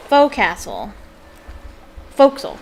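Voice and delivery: "forecastle" squeezed toward FOKE-sul; sailors' pronunciation. Shown as a demonstration. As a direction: say "forecastle" the shipboard way, as "fo'c'sle". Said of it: "told us how to pronounce".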